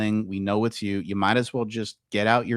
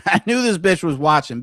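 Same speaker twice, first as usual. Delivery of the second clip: gloating laugh; 5 semitones higher, 6 dB louder than usual. Real, not acted. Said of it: "See, I knew this bitch was watching".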